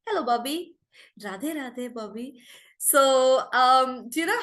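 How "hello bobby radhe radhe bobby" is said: put-on NRI kid accent. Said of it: "see how N R I kids".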